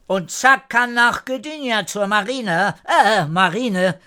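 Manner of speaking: high, eager character voice; lifted pitch with halting self-correction; calling out. A narrator's reading. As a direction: blurt out the news across the yard. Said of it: "auch etwas zu rufen".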